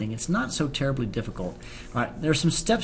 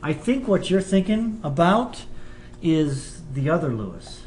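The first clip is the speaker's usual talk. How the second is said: slow southern drawl; slow Southern teacher accent; 4 semitones higher, slower than usual. Acted. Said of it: "I do like my southern accent".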